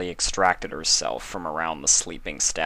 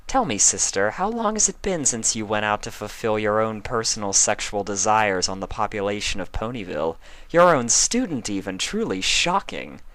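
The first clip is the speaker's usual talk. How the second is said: evil teasing; 4 semitones higher than usual. Acted. Luna taunting her sister Celestia, wickedly smug. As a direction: turn the tables with a wicked grin. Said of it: "Luna smiled evilly".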